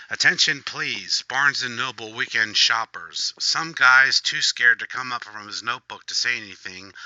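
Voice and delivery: high, loud call for shoppers' attention; mock store announcement. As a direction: announce it to the whole bookstore.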